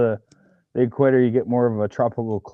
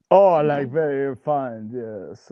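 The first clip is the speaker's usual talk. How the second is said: slow, drawn-out posh English "very fine"; lightly put-on upper-class English accent, slowed down; mock upper-class English; much slower than usual. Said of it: "Very upper class English".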